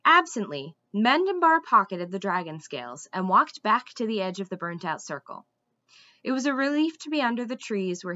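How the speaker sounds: steady, engaged storybook reading; story narration. A narrator's reading. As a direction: tell the tale to listeners. Reads a fantasy novel aloud.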